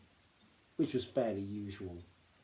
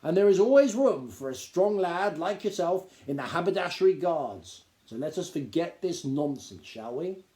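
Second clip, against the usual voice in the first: high, loud, self-important Duke lecturing; a pompous gnome lord talking down to the boy; 5 semitones higher, 6 dB louder than usual. Acted. Duke's pompous speech.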